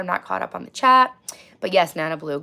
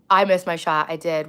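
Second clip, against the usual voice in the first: hoarse voice; 5 dB louder than usual. Real, not acted. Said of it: "Why your voice like that?".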